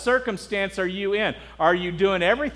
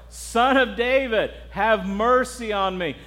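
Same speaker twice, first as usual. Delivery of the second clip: mock shouting; 2 semitones higher, slower than usual. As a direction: imitate calling out slowly over a crowd. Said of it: "He shouted all the more".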